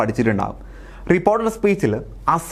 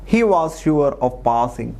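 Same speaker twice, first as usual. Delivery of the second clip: slow dictation read; much slower than usual. Shown as a demonstration. Reading out exam sentence.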